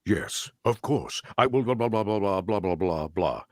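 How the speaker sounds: lightly voiced Megatron. Shown as a demonstration. Actor shows the scripted line in a light Megatron voice. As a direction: stretch the yes, then mumble on. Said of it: "It was".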